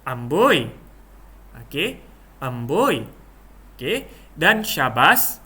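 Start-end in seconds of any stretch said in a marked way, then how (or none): 0.0-0.6 drawn-out, swooping "amboi"; demonstrated wonder; amazed exclamation. Shown as a demonstration. 2.4-3.1 swooping "amboi" of wonder; demonstrated admiration; amazed exclamation. Shown as a demonstration.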